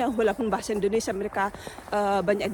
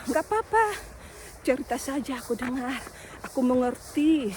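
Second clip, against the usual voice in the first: soothing reassurance. Retold or imitated. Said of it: "aku bilang gitu ya".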